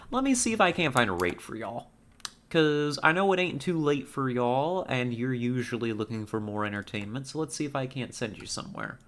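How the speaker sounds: a light Southern lilt, drawing out y'all; a hint of a folksy Southern host; Southern accent. Sending the chat off to another stream, lightly Southern. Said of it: "I've become southern all of a sudden".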